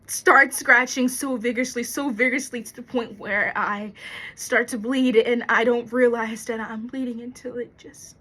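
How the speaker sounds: agitated, building in force; worked up, describing a terror; anxious confession. Acted. Monologue: fear of storms causes anxiety.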